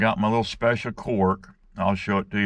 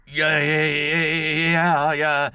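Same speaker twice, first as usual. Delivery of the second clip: nervous agreement; 7 semitones higher, much slower than usual. Retold or imitated. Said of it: "victim nervously agrees".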